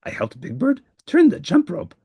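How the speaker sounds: a monster listing his excuses; flustered Grover. Acted. Grover explains his day.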